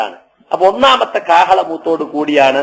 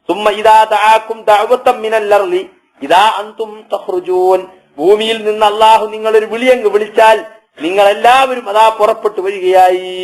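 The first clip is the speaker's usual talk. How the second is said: Quran recitation; 2 semitones higher than usual. Acted. Preacher recites God's call from the earth, intoned. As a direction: intone the verse and carry it into translation.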